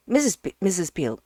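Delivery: loud, fast call to the housekeeper. Acted. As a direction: call her from across the house. Ukridge calls the housekeeper.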